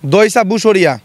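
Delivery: word said in reverse; backwards speech. Shown as a demonstration. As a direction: read the word backwards, syllable by syllable. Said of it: "আপনি তো শব্দ উল্টো করে বলতে পারেন".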